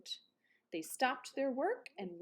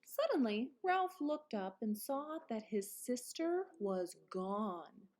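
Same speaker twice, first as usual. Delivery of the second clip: ordinary delivery, nothing marked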